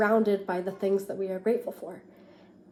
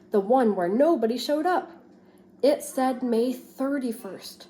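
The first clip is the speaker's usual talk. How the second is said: lively storybook read-aloud for a class; expressive picture book reading; reading to children. Acted. Teacher reads picture book aloud.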